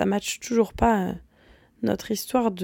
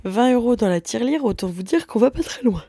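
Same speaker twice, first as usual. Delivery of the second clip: yawning through the words; 3 semitones higher than usual. Real, not acted. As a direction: talk mid-yawn, stretched by a yawn. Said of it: "Pardon, je bâille".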